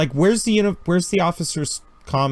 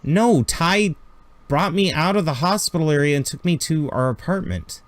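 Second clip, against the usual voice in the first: Jessica, urgent on comm; 3 semitones higher than usual. Acted. Jessica keeps talking on comm.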